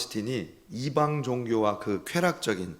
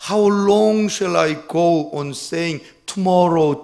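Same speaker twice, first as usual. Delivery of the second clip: pleading cry; 5 semitones higher, 8 dB louder, much slower than usual. Retold or imitated. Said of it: "이렇게 고백했다는 겁니다".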